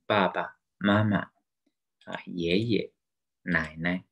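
爸爸妈妈, 爷爷, 奶奶 with each second syllable light; neutral-tone demo. Shown as a demonstration. Teacher reads family words, second syllable of 爸爸, 奶奶 in neutral tone. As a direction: stress the first syllable of 爸爸, 妈妈, 爷爷, 奶奶, drop the second. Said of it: "the neutral tone".

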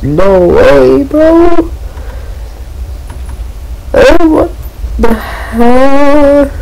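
jolted by a scare in the game; shocked. Real, not acted.

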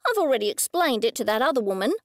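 snapping. Acted. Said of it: "she snapped".

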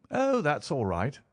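high, drawn-out, relieved exclamation; merry cry. A narrator's reading. Holmes reassured about his violin, merry cry. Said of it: "he cried with a merry laugh".

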